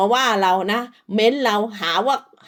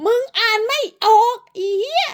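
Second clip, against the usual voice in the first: shrill mocking taunt; 11 semitones higher than usual. Real, not acted. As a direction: jeer at her for not reading. Taunting rival.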